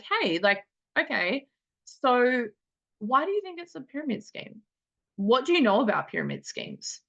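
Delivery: light, friendly questions, no defensiveness; kind, curious questioning. Shown as a demonstration. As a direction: ask gently, like you really want to know. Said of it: "We can lovingly, kindly be like".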